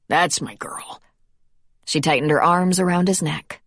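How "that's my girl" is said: soft unvoiced encouragement; whisper. A narrator's reading. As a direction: whisper to reassure her. Steadying Sarah on the slope.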